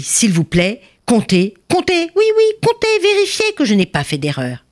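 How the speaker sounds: high, emphatic announcement; speaking loudly. A narrator's reading. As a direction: declare the gift firmly, pressing them to count. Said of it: "l'homme avare parlait fort".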